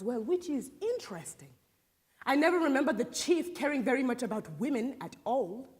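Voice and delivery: lightly voiced god of neglected prayers, sizing up a visitor; proud village healer. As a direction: hold forth deliberately as a proud healer. Plays a healer addressing a visitor.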